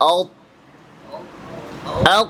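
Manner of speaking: আউ with the air fully stopped at the end; demonstrating a held, closed আউ; stopped t sound. Shown as a demonstration. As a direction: close off আউ sharply, no air released. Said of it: "আপনি উচ্চারণ করেন আওয়াজ বন্ধ কইরা".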